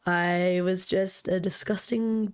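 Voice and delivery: hoarse voice from a cold; sick voice. Real, not acted. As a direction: talk through a sore, husky throat. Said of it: "even though I sound like shit".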